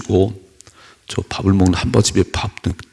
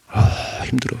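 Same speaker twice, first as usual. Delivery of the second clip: mock whining; 4 semitones higher, 4 dB quieter, slower than usual. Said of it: "이렇게".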